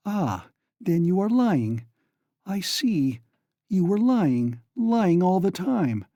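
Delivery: slow, high-pitched accusing cry; distraught cry. A narrator's reading. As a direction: drag out the accusation, losing control. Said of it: "cried Donya, completely losing her head".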